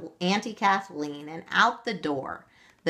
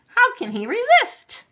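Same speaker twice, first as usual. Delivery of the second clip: giggling; 8 dB louder than usual. A narrator's reading.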